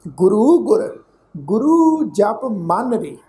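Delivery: slow, measured verse reading with pauses; slow sacred-verse recital; scripture recitation. Shown as a demonstration. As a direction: recite each phrase deliberately, drawing out the words.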